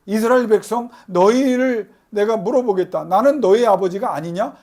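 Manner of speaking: loud, indignant divine reproach; God demanding to be called theirs; God's angry rebuke. Retold or imitated. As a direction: scold the people as an angry God. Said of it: "화를 내시는 말씀을 하셨어요".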